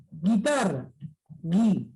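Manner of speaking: "Guitarra", then "Gui" alone, no U sound; silent U. Shown as a demonstration. Teacher demonstrates the silent U in "Guitarra", "Gui". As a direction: isolate "Gui", hard G straight into I. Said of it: "De esa manera".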